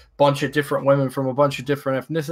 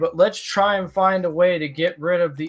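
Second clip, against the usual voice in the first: higher, slowed mock fan gushing; mock weeaboo voice; 3 semitones higher than usual. Mocking a fan who wants anime respectable. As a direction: parody a naive anime fan asking for respect. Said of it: "That's like saying".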